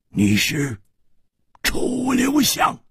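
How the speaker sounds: high, drawn-out exclamation; accusing swordsman. A narrator's reading. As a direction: call out the name slowly, pitched high. Acted accusation in the story. (高声拖长地指认)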